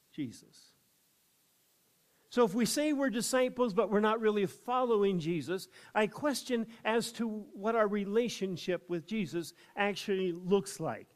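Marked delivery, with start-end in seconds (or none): 2.3-11.1 preaching with force. Real, not acted. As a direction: press the point home, raised. Preacher rising in intensity.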